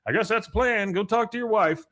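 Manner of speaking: way up high, mocking; mock the advice in a high voice; high sarcastic sneer.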